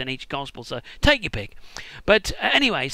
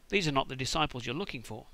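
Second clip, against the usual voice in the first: softer, calm hypnotic command; Jedi mind trick; 5 semitones lower, 9 dB quieter than usual. Pretend. Jesus mind-tricking the guards, soft hypnotic command. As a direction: wave the hand and lull them. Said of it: "He basically says".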